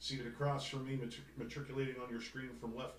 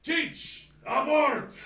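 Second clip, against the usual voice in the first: much higher, louder movie-gangster line; Godfather quote; 13 dB louder, much slower than usual. Retold or imitated. Host quoting Godfather Two, loud mock gangster. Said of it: "Godfather Two line".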